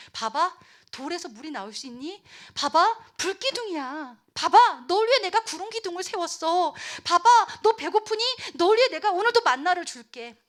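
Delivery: increasingly high, insistent showing; earnest, mounting appeal; eager persuading. Acted. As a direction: urge a child to look, building up. God voiced showing his miracles.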